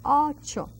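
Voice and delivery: "ocho" with an open, unglided O; open throaty O. Shown as a demonstration. Teacher modelling the O from down in the throat, open "ocho". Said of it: "it comes from down in the throat".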